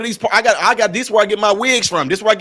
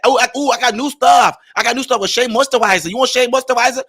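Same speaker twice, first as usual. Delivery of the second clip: put-on raised, eager Asian-accented sales pitch; lightly put-on Asian accent, pitched up with a touch of salesman excitement; excited Asian shopkeeper accent imitation; 4 semitones higher than usual. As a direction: push the new product with a put-on Asian accent. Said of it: "I know how to imitate people really well".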